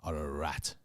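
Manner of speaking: a hint of a grand stage actor; lightly hammed Shakespearean insult; mock thespian. Mocking his mate's acting, lightly theatrical thespian voice. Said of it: "You say it like a thespian".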